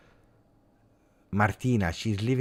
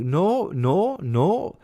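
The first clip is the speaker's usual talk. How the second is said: loud denial; 9 semitones higher, 5 dB louder, much slower than usual. Real, not acted. Rejecting chat's claim about mice.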